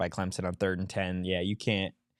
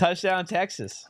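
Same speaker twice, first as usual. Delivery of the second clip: excited announcement; 10 semitones higher, slower than usual. Real, not acted. Announcing the score.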